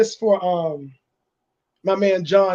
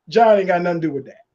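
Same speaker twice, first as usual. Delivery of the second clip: laughing; faster than usual. Real, not acted. Laughing about John.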